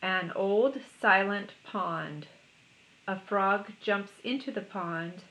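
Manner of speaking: measured haiku reading; unhurried, spaced-out verse; poem recitation. Acted. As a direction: read it slowly as a poem. It goes like this.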